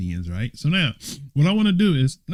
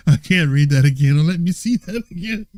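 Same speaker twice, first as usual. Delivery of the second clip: laughing; 3 dB louder, faster than usual. Real, not acted.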